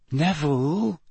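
gentle. Acted. Hermione gently calls to a shaken Neville. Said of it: "Hermione said gently".

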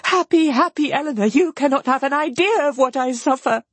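high, anguished pleading; acted despair, pitched far up; distressed cry. A narrator's reading. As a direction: beg and reproach in a high cry. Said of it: "cried Marianne".

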